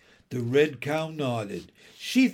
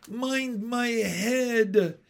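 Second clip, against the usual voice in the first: pleading; 8 semitones higher, much slower than usual. A narrator's reading. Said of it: "entreated the red cow".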